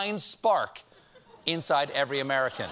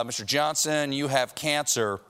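grave doctor; 3 semitones lower than usual. Pretend. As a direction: break the news like a grim physician. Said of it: "their doctor says".

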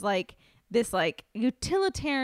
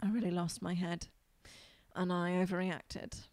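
soft, subdued mock apology; contrite contestant; 3 semitones lower, 7 dB quieter than usual. Baker admitting fault to the judges, softly contrite. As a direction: own up quietly, imitating a sheepish baker. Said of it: "he's like".

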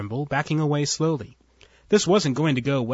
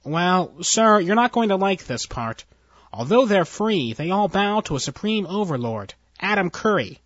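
higher, nervous underling voice; nervous officer; 5 semitones higher than usual. Acted. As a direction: report it anxiously to your boss. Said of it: "entered nervously".

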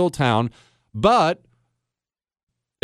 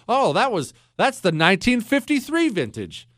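higher-pitched, lightly acted connoisseur naming a vintage; James Bond; 7 semitones higher than usual. James Bond sips and just knows the vintage, lightly imitated. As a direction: pitch it up a little, as if just recognising the taste. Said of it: "I know James Bond always did that".

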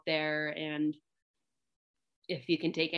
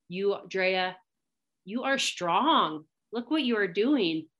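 slow, higher, beaming self-encouragement; reliving a proud moment alone with the buck, higher and slow; proud pep talk to myself; 3 semitones higher, slower than usual. Retold or imitated. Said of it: "where I was told myself".

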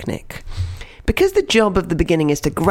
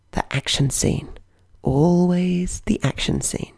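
slow, breathy stage whisper; hushed dramatic whisper; slower than usual. Acted. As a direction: whisper it like a secret answer.

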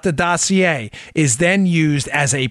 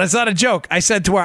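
usual speaking voice

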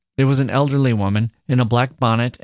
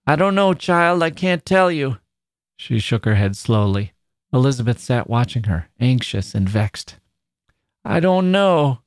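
put-on grieving old woman; 6 semitones higher than usual. A narrator's reading. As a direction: sigh out her troubles. Grandmother voice held.

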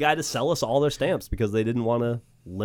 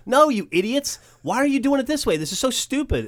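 high, louder scolding rant; exasperated postal worker; 13 semitones higher, 5 dB louder than usual. Retold or imitated. Postal worker scolding kids for using the chute, exasperated. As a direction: berate them like fools. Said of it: "And he's like".

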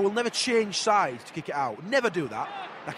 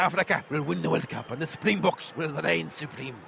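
Nahki Wells impression; 4 semitones lower than usual. Fan doing his best Nahki Wells impression, light American-Caribbean accent. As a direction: barely shift into an American-Caribbean striker voice. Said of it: "it's like American".

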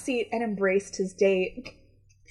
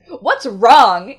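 whiny, louder complaint, pitched up at the end; pouty complaint; 8 dB louder than usual. Acted. Young man grumbling at his date, pouty complaint. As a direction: complain with a pout, voice lifting. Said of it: "he complained as he pulled away with a pout".

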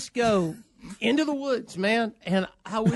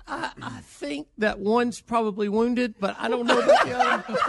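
laughing; 3 semitones higher than usual. Real, not acted. Laughs while retelling the call.

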